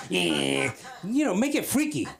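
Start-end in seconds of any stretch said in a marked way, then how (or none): 0.1-0.7 drawn-out buzzing saw noise; imitated saw buzz. Comic turning on the table saw, imitated buzz. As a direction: imitate a power saw starting up. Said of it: "I was gonna turn the Saw on".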